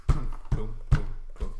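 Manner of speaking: low, hollow thudding booms; imitated booming footsteps. Game master voicing what the players hear, booming. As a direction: sound out heavy steps on the stairs. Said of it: "you hear".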